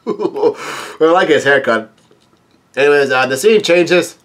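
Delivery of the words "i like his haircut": laughing. Real, not acted. Laughs at the haircut.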